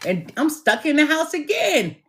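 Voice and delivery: high, wailing imitation of a child; hammed-up tearful complaint; mock crying. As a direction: whine it high like a crying kid. Pinched child crying, grounded again.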